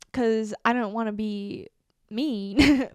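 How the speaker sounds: whispered confidential aside; whispering. Real, not acted. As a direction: drop to a secretive whisper. Hushed aside about being mean.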